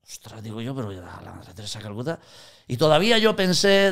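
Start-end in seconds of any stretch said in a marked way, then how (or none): 0.1-2.2 dropped to near-silence, stunned; a hushed, stunned gasp of surprise; hushed astonishment. Retold or imitated. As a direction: breathe it out in disbelief. Retold shock on the plane.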